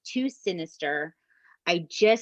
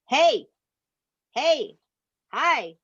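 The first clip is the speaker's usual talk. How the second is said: short raised calls from behind; attacker calling out; 6 semitones higher, much slower than usual. Retold or imitated. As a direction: imitate a stranger hailing someone, pitched up. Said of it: "like that".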